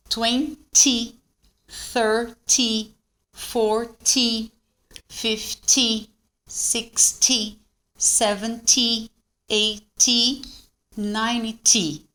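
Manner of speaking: "twenty" to "ninety" with a short, marked final "ty"; "sixty", "seventy" split, ending on a dry "tee"; short, crisp TY. Shown as a demonstration. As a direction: cut the Y short in "thirty", "forty". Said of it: "ele é curto".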